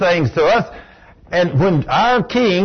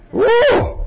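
high falsetto woo; excited whoop. Real, not acted. Preacher whooping at his own point, high and excited. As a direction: let out a joyful whoop.

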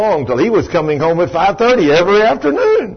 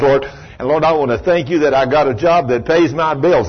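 praising prayer; 2 semitones higher than usual. Retold or imitated. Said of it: "praise him in everything".

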